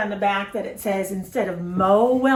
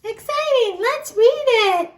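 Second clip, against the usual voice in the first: mock excitement; 13 semitones higher, 4 dB louder than usual. Teacher hams up excitement.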